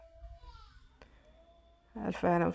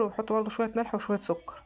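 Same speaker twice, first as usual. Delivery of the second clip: whispered aside. Real, not acted. Whispered aside while listing ingredients.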